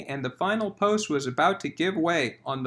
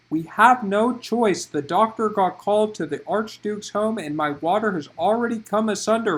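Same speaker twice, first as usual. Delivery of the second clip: whipped back; 3 semitones higher, 4 dB louder than usual. Acted. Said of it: "Farah whipped back".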